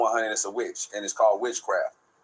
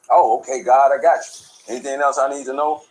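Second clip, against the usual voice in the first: eager agreement; 4 semitones higher, 8 dB louder than usual. Retold or imitated. Answering God's orders, eager and loud. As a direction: promise it keenly.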